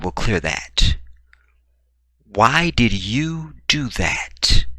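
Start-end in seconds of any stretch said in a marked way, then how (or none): 2.2-4.7 drawn-out, puzzled reproach; familiar reproach. Acted. Said to your girl, slow familiar reproach. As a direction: ask it slowly, stretching each word. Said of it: "is what you say to your girl".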